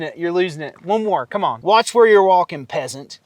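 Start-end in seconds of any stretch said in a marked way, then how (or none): 1.6-2.7 model British line. Shown as a demonstration. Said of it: "Try that one". 2.7-3.2 snooty British demo. Shown as a demonstration. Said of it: "Try that one".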